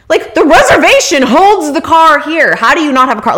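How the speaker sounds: channel Seinfeld's rental car complaint, incredulous; Jerry Seinfeld impression. Retelling the hotel clerk mix-up, mock Seinfeld outrage. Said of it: "go Jerry Seinfeld on your ass".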